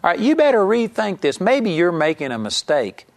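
a touch of mock reproach; challenging. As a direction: mildly confront someone about their judgement. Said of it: "somebody would have challenged me".

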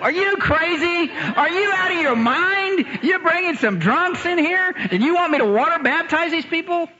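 you can't be serious; incredulous thought. Retold or imitated. Preacher reacting to drunks at his door, high incredulous. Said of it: "I thought to myself".

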